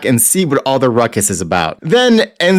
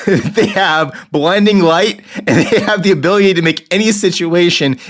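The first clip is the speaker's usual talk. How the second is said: laughing; 9 semitones higher than usual. Real, not acted. Laughing through listing powers.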